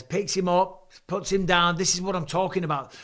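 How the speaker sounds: excited call. Real, not acted. Live fight commentary, big slam.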